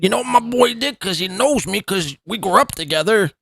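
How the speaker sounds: lightly mocking Southern-accented mimicry; imitated Southern accent. Host parroting the streamer's clip, mock Southern accent. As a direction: echo him with a Southern lilt. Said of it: "why are you speaking like this?".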